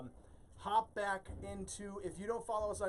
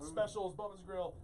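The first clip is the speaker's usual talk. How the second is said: coughing between words; coughing on dust. Real, not acted. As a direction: fight through a dusty cough. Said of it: "I got some dust in my throat".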